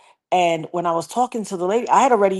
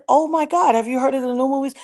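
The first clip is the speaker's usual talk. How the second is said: high, re-enacted gasp of excitement; retold thrilled question; amazed excitement; 7 semitones higher than usual. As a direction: blurt it out, pitched way up. Retelling excitement on meeting airman's widow.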